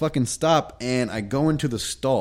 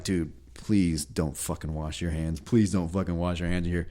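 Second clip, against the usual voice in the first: muttered plea; 7 semitones lower, 8 dB quieter than usual. Retold or imitated. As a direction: beg quietly so he can't hear. Silently begging guy to leave.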